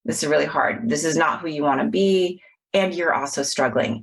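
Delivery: hushed reassuring words to oneself; tender self-compassion. Retold or imitated. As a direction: comfort yourself like a hurting friend. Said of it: "a moment of compassion where I was like".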